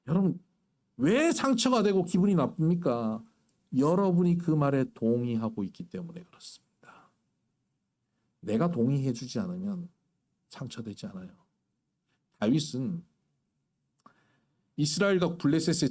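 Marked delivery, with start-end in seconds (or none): 3.8-11.3 hushed whisper to the congregation; breathy secret-sharing whisper. Real, not acted. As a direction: lean in and whisper the point. Preacher drops to whisper.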